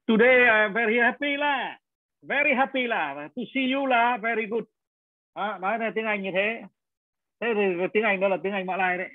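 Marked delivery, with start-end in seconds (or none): 0.1-4.6 Malaysian English with a sing-song "là" tagged on each phrase; high, slow Malaysian English lilt; Malaysian English accent. Shown as a demonstration. Teacher demoing Malaysian English to his students, playful Malaysian accent. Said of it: "Thì bây giờ thì thầy nói chơi tiếng, à, Anh bằng Malaysia cho các em nghe nhé".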